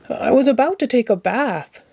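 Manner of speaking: a hint of cheerful Ernie, fond of his duck; gentle, affectionate Ernie voice; lightly voiced Ernie. A narrator's reading. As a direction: Ernie talking sweetly to his toy.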